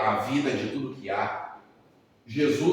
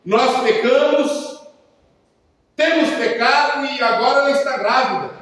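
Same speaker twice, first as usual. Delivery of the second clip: pleading insistence; 12 semitones higher, 9 dB louder than usual. Retold or imitated.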